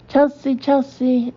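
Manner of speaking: calling a dog. Retold or imitated. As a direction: call the name slowly to coax a dog in. Neighbor calling his dog.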